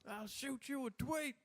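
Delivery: high, slow Southern country drawl; slow creepy country-boy delivery; country serial killer voice. Acted. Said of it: "my serial killer voices sound like a white country dude".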